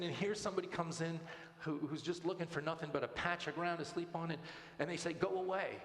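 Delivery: retold indignation, pitched a bit high; mildly outraged, lifting to the final quote; fired up. Student protests a stranger being turned away, lightly acted fired-up indignation. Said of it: "she was fired up".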